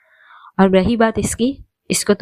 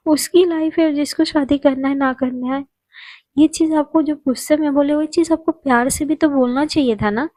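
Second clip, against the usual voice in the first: much higher, earnest pleading; Annie's high pleading voice; 6 semitones higher than usual. Acted. (ऊँची आवाज़ में समझाती एनी)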